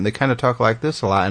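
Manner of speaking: lightly imitated Southern twang; a hint of Southern in the vowels; Southern accent. Host imitating Michigan neighbors, light Southern accent. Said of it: "this kind of a Southern accent".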